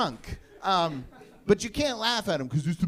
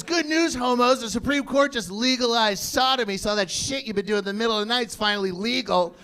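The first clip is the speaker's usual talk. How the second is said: drill sergeant announcement; 4 semitones higher than usual. Retold or imitated. Sergeant announces news to formation.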